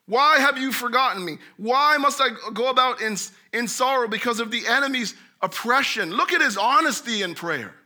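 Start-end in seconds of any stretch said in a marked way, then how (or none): 0.0-6.1 pleading cry. Retold or imitated. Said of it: "I will say to God".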